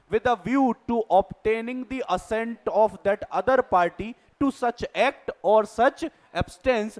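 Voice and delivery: reading a legal definition out slowly, word by word; slow, deliberate dictation of a definition. Shown as a demonstration. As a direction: spell out the definition slowly for note-taking.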